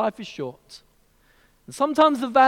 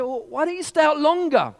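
businessman; 9 semitones higher, 4 dB louder than usual. Acted. Businessman quizzing the fisherman.

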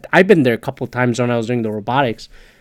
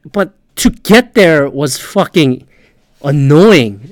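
slow and louder, real irritation rising; getting angry; 5 dB louder, slower than usual. Real, not acted. Vlogger recalling the drive, getting angry for real. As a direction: lean on annoying, fed up. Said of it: "I'm getting angry".

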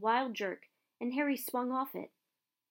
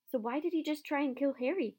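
indignant cry; 6 semitones higher than usual. Acted. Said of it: "cried Hermione".

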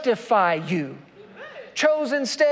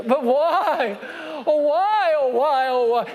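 put-on whining child; 5 semitones higher, slower than usual. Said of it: "conversation with God".

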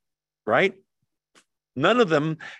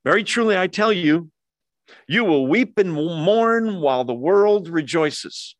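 louder, higher, slowing into a grave prophecy; solemn proclamation; 3 semitones higher, 4 dB louder than usual. Acted. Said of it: "Verse twenty".

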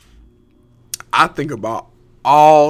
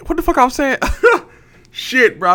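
much higher, louder, laughing through the words; laughing at himself; 13 semitones higher, 5 dB louder than usual. Real, not acted. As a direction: crack up at forgetting the point. Loses his train of thought.

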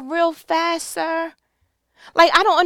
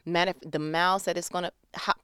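imagined Jonah excuse; 9 semitones lower, 9 dB quieter than usual. Retold or imitated. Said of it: "Jonah didn't even say".

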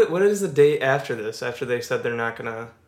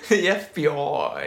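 put-on English accent; 4 semitones higher, 3 dB louder, slower than usual. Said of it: "I gave him an English accent there".

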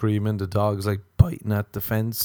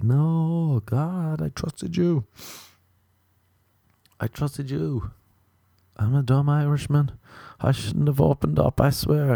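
mock betrayed plea; 6 semitones higher than usual. You betrayed by God in heaven.

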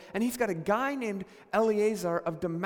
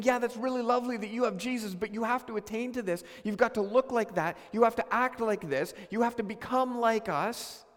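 condescending church voice. Retold or imitated.

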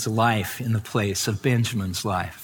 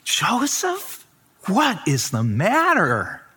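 alarmed question; 7 semitones higher, slower than usual. Acted. Pharaoh voiced reacting.

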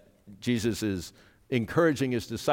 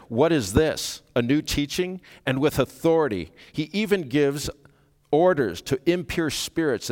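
raised, emphatic astonishment; acted crowd amazement, higher and louder as it builds; amazed questioning; 4 semitones higher, 5 dB louder than usual. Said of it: "all so amazed that they asked".

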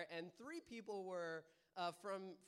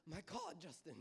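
lightly British-sounding attempt at French; badly faked French accent, slipping into British; a hint of mistaken British accent; botched French accent; 3 semitones lower, 5 dB quieter than usual. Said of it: "where my British accent came from".

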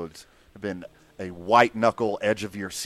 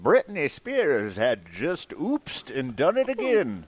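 put-on old newsreel narrator; 3 semitones higher, slower than usual. Continues the old-timey bit.

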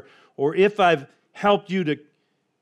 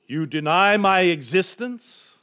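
voice from the sky; 3 semitones higher, 3 dB louder than usual. Acted. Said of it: "a deep voice came out of the sky".

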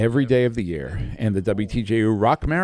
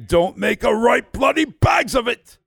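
shouted catchphrase; 13 semitones higher than usual. Shown as a demonstration. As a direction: belt out the catchphrase. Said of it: "an international catchphrase".

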